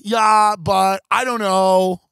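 loud, hesitant mock dodge; a caught critic dodging, loud and unsure; mock evasive stammer. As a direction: stall like someone with no answer. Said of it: "they go".

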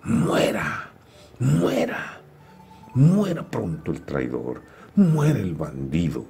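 a shout that spikes high then chants; crowd yelling. Acted. Mob to the condemned man, chanting yell. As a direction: chant for his death. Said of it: "del pueblo que gritaba".

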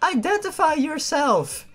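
high snapped challenge; yelled command. A narrator's reading. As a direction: demand it like a sentry. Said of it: "she yelled like a bitch".

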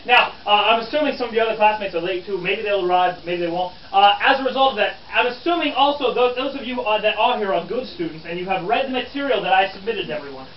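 lively, emphatic quizmaster; schoolmasterly reporter. Acted. Reporter quizzing his good students on the pamphlet, schoolmasterly. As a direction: address the room like pupils facing a quiz.

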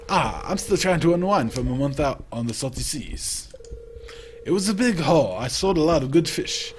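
put-on loud, hearty old fisherman; old sailor voice. Fisherman greeting the newcomer, hearty and loud. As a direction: boom it out like a salty sea dog.

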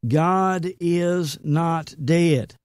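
"God is not dead" stretched word by word; very slow, drawn out. Shown as a demonstration. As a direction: drag it out with "not" held long.

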